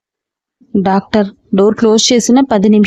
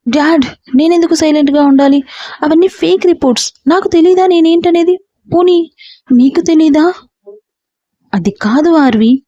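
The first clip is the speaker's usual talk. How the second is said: daughter angrily defying her father; angry; 3 semitones higher than usual. Acted. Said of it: "అని కోపంగా".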